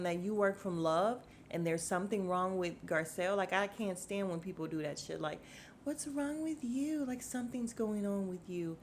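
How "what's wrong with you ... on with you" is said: mock concern. Mocks fake concern before retort.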